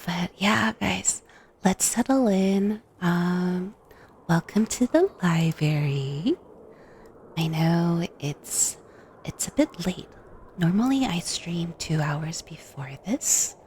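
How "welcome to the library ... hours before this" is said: soothing spa whisper. Acted. ASMR library welcome.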